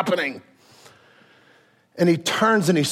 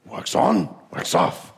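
Miyagi; 2 semitones higher, slower than usual. Retold or imitated. Miyagi drills Daniel, breathy old master voice. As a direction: chant it like the old sensei. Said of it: "you hear Miyagi go".

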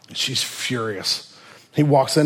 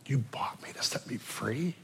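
whispered disbelief; 14 dB quieter than usual. Retold or imitated. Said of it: "she said, repeated in disbelief".

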